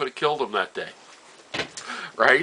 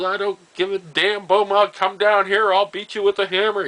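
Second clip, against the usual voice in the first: high-pitched retold angry threat; imitating losing it; 8 semitones higher, 3 dB louder than usual. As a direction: act out a man flying into a rage. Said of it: "He was just losing it".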